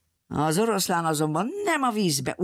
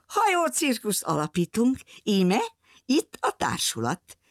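put-on smiling girl; 5 semitones higher than usual. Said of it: "A kislány rámosolygott".

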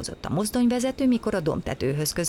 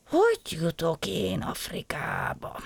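slow, sad whisper; despairing whisper. Acted. Gombóc Artúr whispering after being thrown off the train. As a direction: breathe the question out hopelessly. Stranded hero despairs again.

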